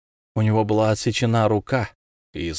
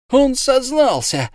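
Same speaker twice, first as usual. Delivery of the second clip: very high, slow, louder yell; triumphant shout; 4 dB louder, slower than usual. A narrator's reading. Fishmonger crowing to the crowd, high slow shout. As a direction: crow it out in triumph. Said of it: "закричал Рыбник".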